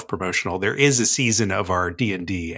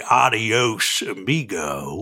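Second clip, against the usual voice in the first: a light Western twang; cowboy dialect; slower than usual. Shown as a demonstration. Answering a cowboy goodbye question, light cowboy twang. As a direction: drop into a lightly voiced cowboy. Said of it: "I will do this in dialect".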